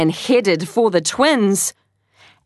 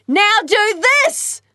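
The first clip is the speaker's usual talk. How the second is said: excited; 13 semitones higher than usual. Acted. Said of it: "said Tai".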